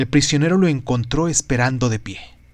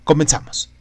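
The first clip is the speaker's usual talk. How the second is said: whispering; 2 semitones higher than usual. Acted. Podcast intro, start of episode.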